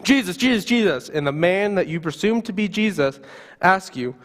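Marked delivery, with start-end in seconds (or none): 0.0-1.1 high desperate call of a name; yelling one last time. Acted. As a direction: throw the last cry out with everything. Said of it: "you yell one last time".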